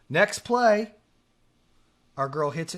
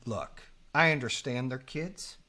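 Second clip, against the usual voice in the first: measured reasoning; 4 semitones lower than usual. Retold or imitated. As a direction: reason with him, holding back. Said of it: "I said it just like this".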